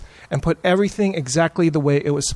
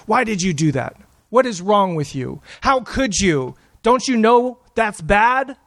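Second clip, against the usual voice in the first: imagined scolding parent; 3 semitones higher than usual. Retold or imitated. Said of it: "I was thinking".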